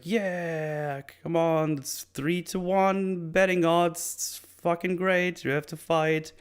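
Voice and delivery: high, drawn-out hyped-up crowd voice; excited egging on. Retold or imitated. Storyteller voicing the crowd pushing the challenger to fight, excited.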